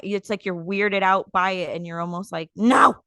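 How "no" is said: loud, raised-pitch mock outburst; mock outraged protest. Weirded-out woman objecting to kind treatment, mock outrage. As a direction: protest loudly, as if scandalized.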